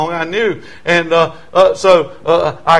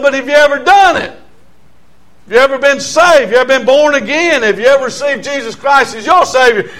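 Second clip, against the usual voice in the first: higher and louder urgent questions; zealous plea, raised and insistent; earnest pleading; 7 semitones higher, 5 dB louder than usual. Retold or imitated. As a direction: press them, one question after another. Pleading with hometown friends.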